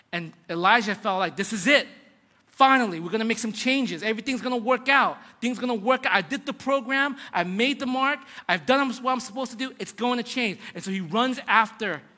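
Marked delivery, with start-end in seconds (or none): 1.4-10.6 hopeful excitement. Retold or imitated. Prophet believes everything will change.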